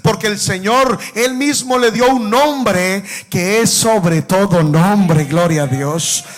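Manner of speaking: slow, ringing preacher's proclamation; sermon cadence, swelling on each gloria; fervent preaching. Acted. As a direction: proclaim it to the congregation with full force.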